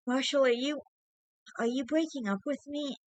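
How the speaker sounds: high, trembling-edged question; frightened girlfriend. A narrator's reading. Girlfriend fearing a breakup.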